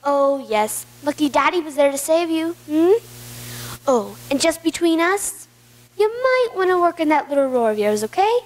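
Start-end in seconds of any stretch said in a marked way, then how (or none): 3.9-8.4 manipulative charm. Acted. Uncle deceives nephew sweetly.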